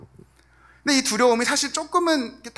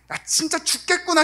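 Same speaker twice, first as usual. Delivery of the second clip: much higher panicked exclamation; panicked cry; 9 semitones higher than usual. Retold or imitated. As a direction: blurt it in sudden dread. People panicking before the sea.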